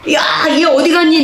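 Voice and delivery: high shout across the room; calling out. Retold or imitated. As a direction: shout asking where he went. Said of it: "내가 그랬어". (큰 소리로 부르듯 외침)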